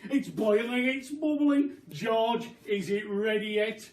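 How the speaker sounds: high, loud excited cry; excited shout. Acted. Mister Cranky shouting over the bubbling pot, high and loud. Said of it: "cried Mister Cranky".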